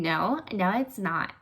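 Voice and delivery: a hint of a nasal Nanny voice; Fran Drescher voice. Virgos talking like the Nanny, lightly nasal. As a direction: lightly mimic Fran's nasal whine. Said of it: "talking in her voice".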